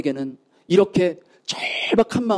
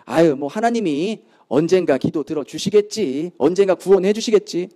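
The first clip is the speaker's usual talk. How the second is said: offhand, without any urgency; mock complacency; 3 semitones lower than usual. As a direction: shrug it off like a habitual prayer. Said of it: "아무런 절박한 마음도 없이".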